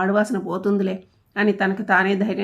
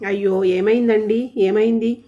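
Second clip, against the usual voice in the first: slow, worried cry of concern; anxious; 3 dB louder, slower than usual. Acted. Wife seeing the bandaged thumb, anxious and alarmed. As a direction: rush to ask what happened, alarmed. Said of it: "కంగారుగా అడిగి".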